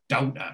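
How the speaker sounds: "doubter" for daughter, Geordie vowel; Geordie pronunciation. Shown as a demonstration. Showing the proper Geordie way, "doubter" with an ow. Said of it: "that's a proper Geordie pronunciation".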